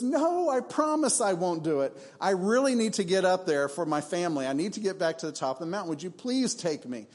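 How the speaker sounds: a hint of a begging snake; pleading snake. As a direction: beg sweetly to be carried up. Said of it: "Rattlesnake says".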